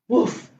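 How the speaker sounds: one short imitation woof; a single mock bark; puppy bark. Story reader barks as puppy Biscuit.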